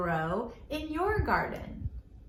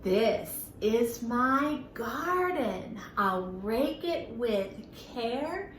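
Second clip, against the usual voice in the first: slow, sing-song nursery rhyme; children's rhyme read out slowly; slow rhyme recital; slower than usual. Shown as a demonstration. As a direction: recite it slowly for little ones. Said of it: "Let's do it together one more time".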